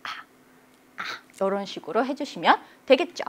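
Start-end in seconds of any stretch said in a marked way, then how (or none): 0.0-1.0 very soft whisper; feeble neutral tone. Shown as a demonstration. Teacher drilling the neutral tone, whispered feebly. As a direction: whisper it, with "아" tiny and short. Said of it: "경성은 엄살 피워".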